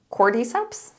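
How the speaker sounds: "Cordyceps" as a tentative question, rising at the end; "Cordyceps" lifted into a question, checking how to say it; unsure pronunciation. Real, not acted. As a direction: try out "Cordyceps" as KOR-dee-seps, unsure. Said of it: "never know how to pronounce".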